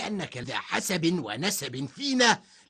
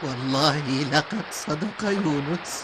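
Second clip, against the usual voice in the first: great fear. Acted. Villager fearing the punishment has come, frightened cry. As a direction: panic as the storm hits. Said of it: "قال أحدهم بخوف شديد".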